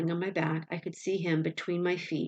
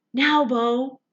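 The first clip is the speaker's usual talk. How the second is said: much higher, louder shriek; 7 semitones higher, 9 dB louder than usual. A narrator's reading. Boy shrieking at his slipping dog. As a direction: shriek the command in terror. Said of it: "I shrieked".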